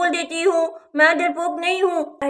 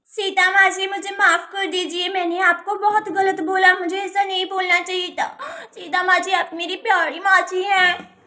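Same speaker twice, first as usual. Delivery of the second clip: mock-tearful pleading; tearful apology. Niece begging her aunt's forgiveness, tearful apology. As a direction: plead as if crying, understated. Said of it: "अब रोना बंद करो".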